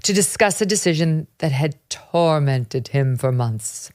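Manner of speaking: put-on mid-Atlantic accent. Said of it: "Yeah, mid-Atlantic accent".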